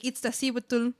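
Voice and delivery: Iztaccíhuatl said as its-tah-SEE-wah-tul; careful Nahuatl Iztaccíhuatl; Nahuatl name carefully said. Shown as a demonstration. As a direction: sound out Iztaccíhuatl syllable by syllable. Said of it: "well, I know a few".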